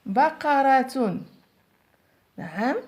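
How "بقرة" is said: very slow, stretched بقرة; teacher dictating to pupils, slowly; slow dictation. Shown as a demonstration. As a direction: draw بقرة out syllable by syllable, the ق clear in the middle. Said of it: "في وسط الكلمة".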